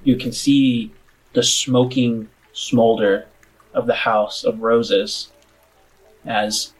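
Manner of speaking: slow, atmospheric scene-setting; game master narration. Acted. Game master shows players the smouldering town at night, slow narration. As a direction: paint the view unhurriedly, pausing between images.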